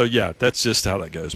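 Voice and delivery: usual speaking voice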